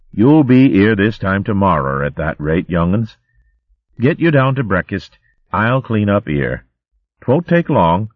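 kindly, a hint of rural burr; lightly voiced country hogwife. Teasel offering to clean up for the youngsters, kindly. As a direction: talk like a homely old hogwife.

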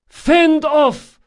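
high, loud command; crying out. A narrator's reading. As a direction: bark the order to the whole crew. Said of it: "cried Drakasha".

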